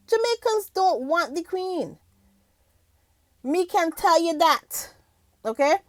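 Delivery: a hint of the interviewee's slow, emphatic declaration; a singer. Host quoting the singer's interview, lightly imitated slow declaration. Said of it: "the singer said in the interview".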